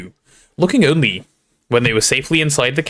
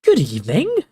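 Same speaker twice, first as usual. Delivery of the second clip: higher, cheerful greeting; beaming; 6 semitones higher than usual. A narrator's reading. Ghost greeting arriving students, beaming. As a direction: greet them with a lifted, pleased voice. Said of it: "he said, beaming at them".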